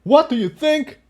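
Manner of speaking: high, bitter snap; snapped. Acted. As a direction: bite back at her. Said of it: "he snapped back".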